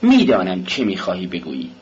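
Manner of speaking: sharp hushing, then a curt dismissal; harsh tone. Acted. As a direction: cut him off harshly. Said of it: "با لحن شدیدی گفت".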